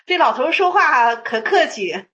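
chuckling through the remark; amused, with a light laugh. Real, not acted. Teacher chuckling to listeners at the old man's politeness, laughing.

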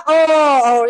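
imitated mourner's "oh, oh" cry; mock sobbing. Son weeping behind the funeral bell-ringer, mock sobbing. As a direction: give a brief acted wail of grief. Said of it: "就在这儿哭".

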